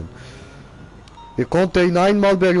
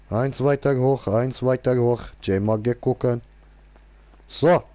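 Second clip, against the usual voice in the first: mock broken German. Mock broken German car talk.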